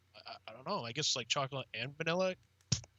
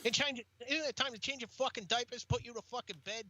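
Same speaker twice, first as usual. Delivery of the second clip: mocking taunt; 6 semitones higher than usual. Mocking the child star.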